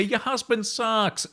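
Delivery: slow, soft, deadpan verdict; blunt disapproval. Real, not acted. Telling OP her husband is bad, slow and deadpan. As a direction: drop it flatly and slowly.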